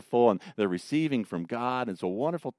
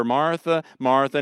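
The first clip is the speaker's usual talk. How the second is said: higher, louder, a gentle reproach; Jesus gently rebuking Martha; subtle rebuke; 4 semitones higher, 5 dB louder than usual. Retold or imitated. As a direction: call her name to pull her up short. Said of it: "we're probably about to receive a subtle rebuke".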